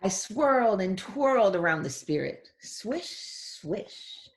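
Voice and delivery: swoosh it like skating; twirling little girl. Acted. Reads girl's lines.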